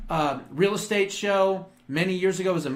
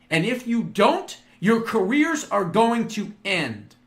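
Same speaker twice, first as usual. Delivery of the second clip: 1 stern ultimatum; 3 semitones higher than usual. Pretend. Imagined Elon ultimatum to Congress.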